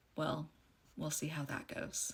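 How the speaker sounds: very quiet, glum, despondent and irritated tone. Retelling a conversation, speaker quotes their spouse interjecting, mock-despondent, annoyed tone. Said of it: "the most like despondent, but like annoyed voice".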